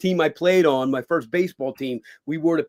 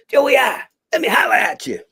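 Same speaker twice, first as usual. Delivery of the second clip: high, loud casual call; imitating the director; 9 semitones higher, 7 dB louder than usual. Director phoning Joey at night, high loud mock greeting. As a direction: toss it out like an old friend ringing late.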